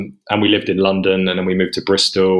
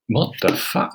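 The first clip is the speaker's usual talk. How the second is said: breathless whispered disbelief, softer; shocked whisper; 3 semitones higher, 3 dB quieter, slower than usual. Retold or imitated. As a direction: whisper it as if the news just landed. Retold shock at rent email.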